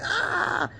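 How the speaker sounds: high mock scream of pain; short scream. Girl yelping in pain as the medic pulls her sleeve, high mock scream. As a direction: yelp as the sleeve is pulled. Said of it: "I screamed".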